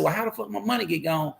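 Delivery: retold angry. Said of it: "so I'm hot at this point".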